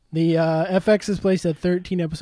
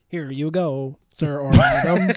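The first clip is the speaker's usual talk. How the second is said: robot butler voice. Pretend. Robot serving martini voice.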